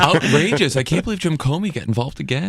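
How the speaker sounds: laughing, high mock indignation; sarcastic disbelief, half laughing; mock outrage. Mock outrage about Comey.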